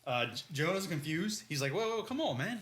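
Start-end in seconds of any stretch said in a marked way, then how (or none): 1.7-2.6 high mock protest. Acting Jonah's protest.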